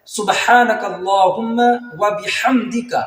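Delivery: slow, drawn-out Arabic recitation; correct recitation. Shown as a demonstration. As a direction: recite each sound clearly and slowly. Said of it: "تو اس طرح پڑھا جاتا ہے". (آہستہ اور صاف تلاوت)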